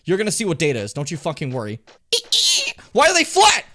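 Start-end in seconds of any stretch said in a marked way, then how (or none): 2.9-3.6 surprised. Real, not acted. Same question asked twice.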